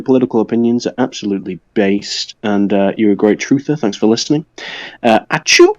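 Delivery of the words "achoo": spoken achoo with a rising end; mock sneeze. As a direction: say a pretend sneeze as a word. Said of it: "You sound like you'd be sneezing".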